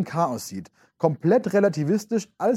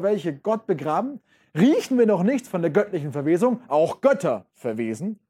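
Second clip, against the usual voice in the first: dramatic reading; 3 semitones higher than usual. Acted. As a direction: preach the questions to the crowd. Teacher reads madman speech aloud. (dramatisch vorgelesen, eindringlich fragend)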